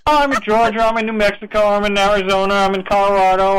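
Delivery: lightly mock a co-host forever on the move; playful imitation, rattling off places; teasing mimicry. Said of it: "you switch every week".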